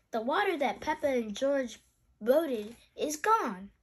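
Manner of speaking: put-on animated read-aloud for children; lilting storybook narration; story reading. A narrator's reading. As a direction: read a picture book with lively emphasis.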